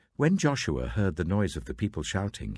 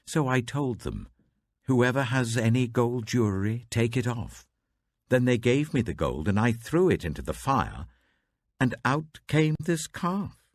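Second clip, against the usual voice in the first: higher, hurried pleading excuse; flustered excuse; 7 semitones higher, 4 dB louder than usual. Acted. Aaron excusing himself to angry Moses, higher and flustered. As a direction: talk your way out of blame, pitch climbing.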